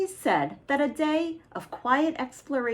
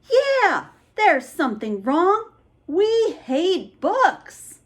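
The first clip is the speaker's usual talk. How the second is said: high, loud complaining monster, slow at the end; grumpy monster; 8 semitones higher, 4 dB louder, slower than usual. Acted. Monster complaining to the boys, loud grumpy. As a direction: whine that you hate books.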